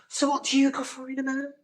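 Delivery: high, held-up presenter voice; high-pitched host impression; imitated TV presenter. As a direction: mimic her question way up high. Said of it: "it says".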